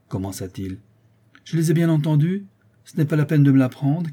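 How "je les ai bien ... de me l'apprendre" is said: high, impatient countess; head voice. A narrator's reading. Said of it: "de sa voix de tête". (voix de tête impatiente)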